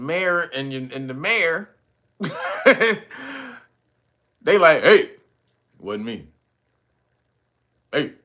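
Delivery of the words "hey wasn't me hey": low, mumbled "wasn't me"; mock denial in the style of a reggae singer's song. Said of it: "that Eddie Murphy special".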